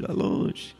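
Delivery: breathy whisper, as if far away; whispered echo. Shown as a demonstration. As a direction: let the words fade into a whisper. Echoing far across the sea.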